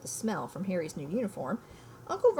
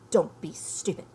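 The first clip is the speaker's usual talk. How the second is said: snapped; 4 dB louder than usual. Acted. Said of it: "snapped Aunt Petunia".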